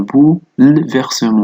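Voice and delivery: "بو، ل، فيرسمون" with the l closing the first syllable; silent-e pronunciation. Shown as a demonstration. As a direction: read "بو، ل، فيرسمون" with its middle e's muted. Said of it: "سوف تقرأ بهذا الشكل".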